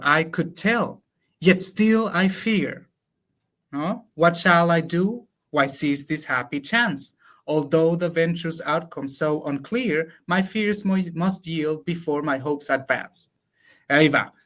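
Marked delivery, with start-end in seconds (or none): 0.0-2.9 slow, measured recital of the English lines; slow verse reading. Acted. To a colleague, reciting translated Lope verse slowly. 4.1-13.3 slow, measured recital of the English lines; slow verse reading. Acted. To a colleague, reciting translated Lope verse slowly.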